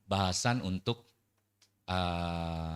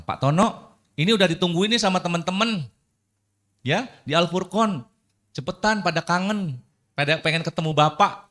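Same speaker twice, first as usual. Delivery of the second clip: eager invitation; 7 semitones higher, 6 dB louder than usual. Acted. Inviting Pak Tono warmly.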